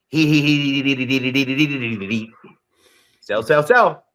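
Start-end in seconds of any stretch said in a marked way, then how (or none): 0.1-2.3 sneaky heel snicker, fading out; mock heel giggle. Greeting a heel fan in person with a sly snicker. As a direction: snicker like a villain. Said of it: "If you're the heel, I'm gonna go".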